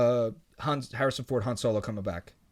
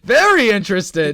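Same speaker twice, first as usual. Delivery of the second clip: slow, drawn-out very interested; slow deadpan comedy bit; Kevin Nealon bit; 3 semitones higher, 9 dB louder, slower than usual. Retold or imitated. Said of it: "It's a Kevin Nealon".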